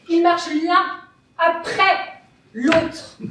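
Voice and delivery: emphatic, scornful denunciation; indignant tirade. Acted. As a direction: rail against them, punching key words. Indignant tirade against the quarrelling feet.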